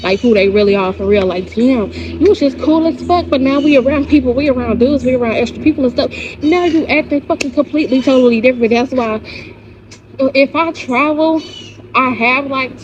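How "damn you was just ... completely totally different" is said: higher-pitched, indignant call-out; acted complaint. Confronting a friend who switches up around people, higher and indignant. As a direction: call out a two-faced friend.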